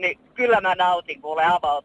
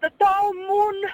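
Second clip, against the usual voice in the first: mock thrilled, high, excited shout; 14 semitones higher than usual. Telling of spotting a convertible at a car dealership, retelling a shout to the husband. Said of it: "Ja huusi miehelle niin".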